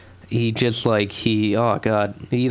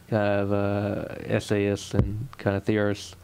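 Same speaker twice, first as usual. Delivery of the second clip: pompous scholar; 2 semitones lower, 4 dB quieter, slower than usual. Pretend. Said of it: "Doctor Literati".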